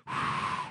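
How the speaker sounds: long voiceless blowing-out breath; cigarette exhale. Retold or imitated. Assistant manager exhaling smoke out back, imitated proud exhale. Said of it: "exhaling a cigarette".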